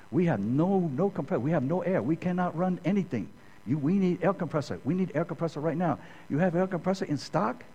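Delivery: put-on high, urgent Japanese-accented plea; imitated Japanese manager. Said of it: "the plant manager comes up".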